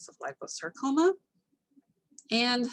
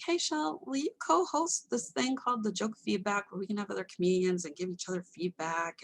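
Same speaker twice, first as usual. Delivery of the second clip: imitating Henry. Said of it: "he was like".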